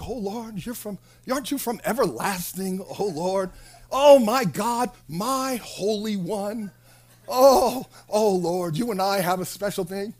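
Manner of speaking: mock pleading intimacy. Habakkuk claiming a special thing with God, mock pleading intimacy. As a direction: play up the fervent, cosy prayer. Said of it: "Habakkuk is kinda doing the same thing".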